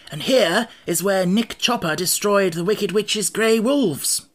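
high, animated storybook monarch; Scarecrow, reminiscing. A narrator's reading. Scarecrow showing companions an old battleground, high and animated. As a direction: point out an old battleground grandly.

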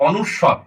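"অনুস্বর" said distinctly as a model; standard pronunciation. Shown as a demonstration. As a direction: pronounce the letter name "অনুস্বর" carefully for learners. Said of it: "এটার উচ্চারণ হবে".

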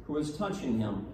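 solemn, measured liturgical reading; Gospel reading. Acted. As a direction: proclaim the Gospel to the congregation. Priest reads the Gospel aloud.

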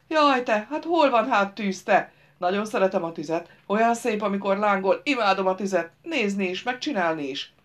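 put-on loud, eager childlike fool; village simpleton, thrilled. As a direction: gush with a firebug's delight.

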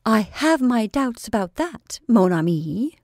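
slow, lazy mock-French drawl with a shrug; playful imitation of a suitor's French drawl. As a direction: drawl it out, teasing him with his own old manner. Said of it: "drawled out in his old way".

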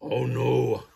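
loud, drawn-out goose honk. A narrator's reading. Goose realises where the flock is, honking loudly. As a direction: honk it in dismay. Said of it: "honked the goose".

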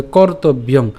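measured, slow Sanskrit phrasing; verse recitation. Shown as a demonstration. Teacher showing how to pronounce it, slow recitation. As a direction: recite the line in careful pieces. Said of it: "অথবা এভাবে উচ্চারণ করতে পারেন".

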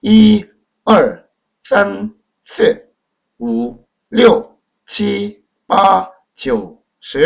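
each numeral apart, tones clearly drawn; Mandarin pronunciation demo. Shown as a demonstration. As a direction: count in Mandarin with exaggerated tones. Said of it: "다시 할게요".

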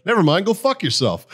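high, mock-angry brush-off; retold comeback, pitched high; mock angry telling off. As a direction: snap it off at a rude stranger. Retelling telling off a rude woman.

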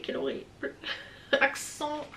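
laughing at herself. Real, not acted. Mocking her own English accent, she laughs it out in a soft whisper. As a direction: giggle the words through a whisper at your own bad English. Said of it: "Oh, mon anglais".

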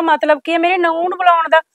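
mother-in-law scolding the neighbour, loud and angry. Acted. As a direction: tell her off sharply.

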